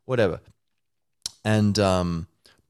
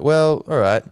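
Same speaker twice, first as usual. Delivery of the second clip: honesty character; 8 semitones higher, 8 dB louder, slower than usual. Retold or imitated. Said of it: "honesty is like".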